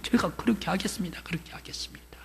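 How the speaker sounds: 점점 작아지며 속삭이듯; 기죽어 굽실대며; 잦아드는 대답. Retold or imitated. 남편이 굽실대며 대답. (속삭이듯 잦아드는 대답)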